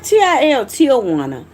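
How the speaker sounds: T I L spelt out, then Tijuana as "TEEL-wanna"; pronunciation demo. Shown as a demonstration. Speaker teaching viewers her name, demonstrating pronunciation. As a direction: let Tijuana start like "teel", falling at the end. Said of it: "but it's pronounced T".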